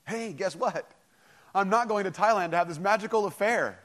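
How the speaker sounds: mocking the caller's would-be boast to his wife. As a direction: ham up the smug husband. Mocking what caller won't say.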